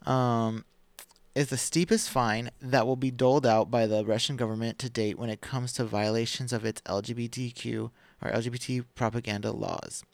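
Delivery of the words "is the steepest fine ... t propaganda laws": measured, deliberate article reading; podcast host reading the headlines; news article read-aloud. Acted.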